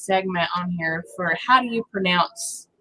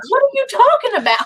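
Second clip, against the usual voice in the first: much higher, puzzled question; retold disbelief; baffled; 14 semitones higher, 3 dB louder than usual. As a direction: sound totally confused. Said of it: "And I said".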